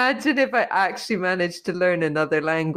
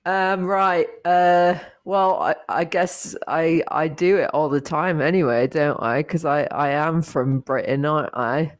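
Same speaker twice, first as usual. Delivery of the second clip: casual Cockney-tinged British, halting; British accent. Shown as a demonstration. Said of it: "Okay, you do it now".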